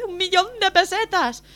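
put-on crying child. Little boy telling the man he lost money, high wailing. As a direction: blurt it between sobs like a kid.

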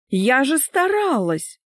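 high, slow, wounded protest; protesting wife. Acted. Wife defends herself to husband, high protesting voice. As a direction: plead your effort in a high voice.

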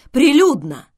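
high, loud aghast exclamation; horrified. A narrator's reading. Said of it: "ужаснулся Гермес". (в ужасе воскликнуть)

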